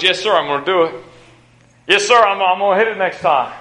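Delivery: eager, determined answer with some fire; fired-up player. Acted. Football player promising his coach to improve, a little fired up. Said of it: "has a little bit of fire".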